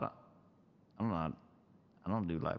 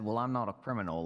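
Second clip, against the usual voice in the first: offhand; faster than usual. Retold or imitated. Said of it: "the offhand and passing way".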